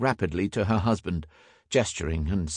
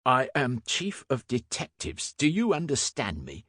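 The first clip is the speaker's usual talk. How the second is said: higher-pitched, affronted official; indignant authority; 6 semitones higher than usual. A narrator's reading. Inspector rebukes the new constable, indignant and commanding. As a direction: pull rank on a junior.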